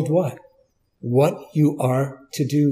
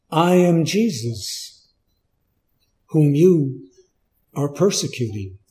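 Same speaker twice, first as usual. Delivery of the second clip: solemn; 3 semitones lower, 4 dB quieter than usual. Acted. Voice of Jesus answering.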